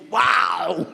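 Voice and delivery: Jesus bursting out in loud amazement; a sudden shouted wow of wonder; amazed wow. Acted. Jesus marvels at the woman's faith, amazed shout.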